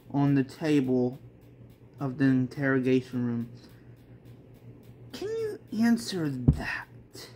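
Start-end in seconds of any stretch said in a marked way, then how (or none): 5.1-7.3 menacing cop. Acted. Cop interrogating Sakura.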